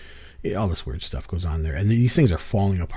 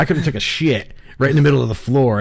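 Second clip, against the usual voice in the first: amused rant; 7 semitones higher, 7 dB louder than usual. Real, not acted. Laughing rant about filthy place.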